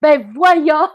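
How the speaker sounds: mock innocence. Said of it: "j'ai fait".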